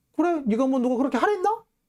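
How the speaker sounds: high, squabbling grade-schooler voice. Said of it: "초딩들이 서로 이렇게 멱살 잡고 싸울 때 하는".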